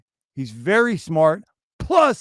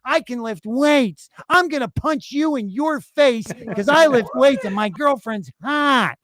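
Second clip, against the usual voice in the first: slow, higher mock voice of a show-off; lightly voiced mocking of a bragging streamer; mocking the braggart; 4 semitones higher than usual. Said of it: "He starts talking on stream".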